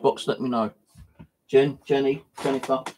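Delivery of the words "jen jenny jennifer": slow, much higher spooky calling; drawn-out haunting call into the dark; calling out to a spirit. Acted. Ghost hunter calls the spirit Jen through the ghost box in a slow spooky sing-song.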